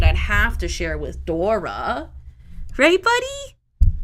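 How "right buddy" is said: much higher, louder, slow. Real, not acted. Streamer asks her cat, high, loud and drawn out. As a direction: ask the cat sweetly and drawn out.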